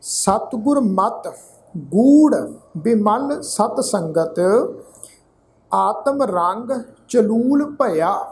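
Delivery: ਕਵ ਕੱਲੇ ਠਾਕੁਰ chanted slowly with long pauses; measured scripture reading; slow recitation. Shown as a demonstration. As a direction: model the verse for learners phrase by phrase. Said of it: "ਅਸੀਂ ਉਚਾਰਨ ਕਰਾਂਗੇ ਜੀ".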